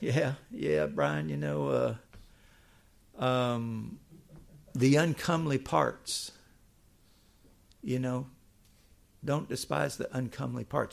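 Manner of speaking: slow Southern drawl with a little laugh. Retelling a friend's odd remark while driving: imitating a friend's Southern accent, laughing a little. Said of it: "he has a Southern accent".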